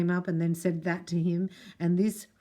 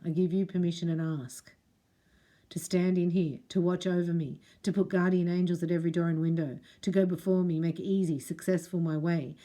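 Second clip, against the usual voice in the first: spoken prayer. Acted. Spoken prayer to Archangel Michael.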